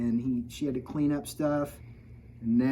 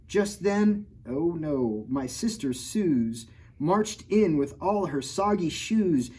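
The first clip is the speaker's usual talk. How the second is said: lively picture-book read-aloud; reading to children; 3 semitones higher, slower than usual. A narrator's reading. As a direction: read the rhymes to a kid audience. Reads rhyming picture book.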